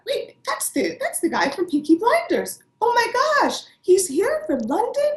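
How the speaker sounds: high, breathless fangirl gasp; starstruck squeal. Retold or imitated. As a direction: squeal it like you just spotted a celebrity. Recalling recognising a star.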